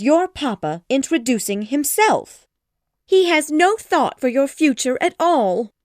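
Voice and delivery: high, loud nervous mother complaining; a fussing mother at her wits' end; fretful mother. Acted. Mrs Bennet voice, fretful.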